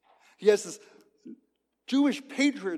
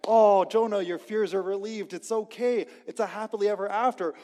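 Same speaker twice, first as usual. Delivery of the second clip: mock relief; 4 semitones higher, 5 dB louder than usual. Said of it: "you expect".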